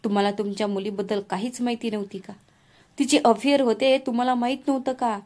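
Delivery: angry groom's mother shouting at the bride's father; angry accusation. Acted. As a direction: hammer him with the question.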